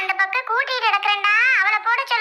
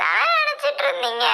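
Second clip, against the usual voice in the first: theatrical bawling; 7 semitones higher than usual. Acted. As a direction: rise into a high wail. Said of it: "அழுகுற மாடலை முதல்ல மாத்துறியா".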